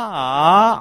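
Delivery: test shout. Shown as a demonstration. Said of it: "et si je fais ah".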